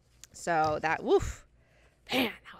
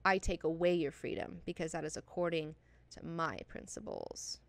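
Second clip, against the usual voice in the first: solemn quote reading; 2 semitones lower, 4 dB quieter than usual. Shown as a demonstration. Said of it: "quote that I would like to share with you guys".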